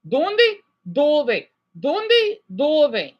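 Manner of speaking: teacher contrast drill. Shown as a demonstration. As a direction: drill "Donde, dove" back and forth. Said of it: "You hear that?".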